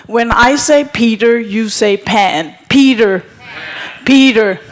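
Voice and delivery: calling out. Real, not acted. Call and response with audience.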